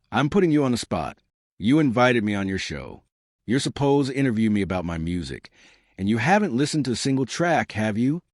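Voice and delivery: calm, level and blunt, not angry; cool matter-of-fact confrontation. Retold or imitated. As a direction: state it plainly, like a simple fact. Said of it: "isn't even angry. It's just matter of fact".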